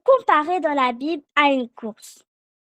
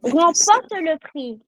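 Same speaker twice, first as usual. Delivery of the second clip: slow call to repeat; slower than usual. Shown as a demonstration. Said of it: "Répétez après moi".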